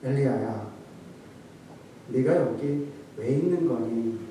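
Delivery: soft, low pitying question; sorrowful tenderness. Shown as a demonstration. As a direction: ask him gently, full of pity. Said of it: "라고 말했을까요". (낮고 부드럽게 안타까워하며)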